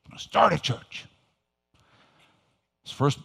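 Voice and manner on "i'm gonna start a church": excited. Retold or imitated. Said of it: "I was all excited".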